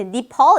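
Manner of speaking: 니팔 said with "ni" in the first syllable; English pronunciation. Shown as a demonstration. Teacher showing students the English Nepal, English pronunciation of 니팔. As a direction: say 니팔 English-style, opening on "ni". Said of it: "이렇게 발음해야 돼요".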